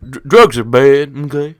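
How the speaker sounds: slow, drawn-out mock warning; mock anti-drug lecturer. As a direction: lecture them half-seriously against drugs.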